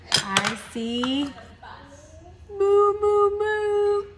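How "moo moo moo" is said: high loud mooing; cow moo. Pretend. Parent voicing cow loudly.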